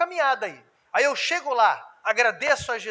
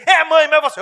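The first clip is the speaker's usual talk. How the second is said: son talking back; 7 semitones higher, 8 dB louder than usual. Retold or imitated.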